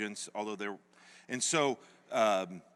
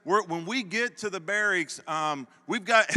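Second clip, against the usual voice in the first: sweet friendly voice; 6 semitones higher, 4 dB louder than usual. Retold or imitated. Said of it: "They were real sweet to us".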